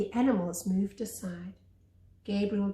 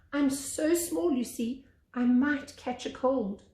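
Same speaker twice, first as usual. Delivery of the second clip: higher, slow small piglet voice; small and timid, a little higher; little Shrimp voice; 5 semitones higher than usual. Acted.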